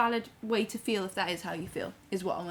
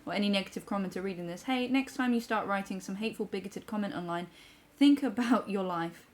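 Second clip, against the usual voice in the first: measured, softer read-aloud; reading a message aloud; 3 dB quieter than usual. Acted. Reads a viewer's comment aloud.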